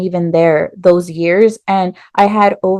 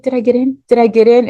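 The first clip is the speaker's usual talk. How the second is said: anxious eagerness; 4 semitones higher, faster than usual. Retold or imitated. Begging to know result.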